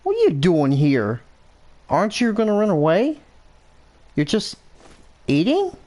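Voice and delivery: rising, fast, puzzled questions to the animal; baffled that the beast won't flee; surprised disbelief. Pretend. Hunter surprised by a calm grazing animal, rising amazement.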